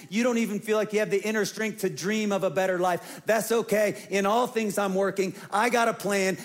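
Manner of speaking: fervent preaching, pitched high and pressing. Acted. Pastor assures the weary of God's promise, fervent preaching. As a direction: preach it urgently, voice lifted, driving through each phrase.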